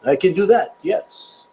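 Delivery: a joking hint of a French accent; mock French. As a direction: toss off the "oui, oui" like a pretend Frenchman. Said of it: "presentation in French".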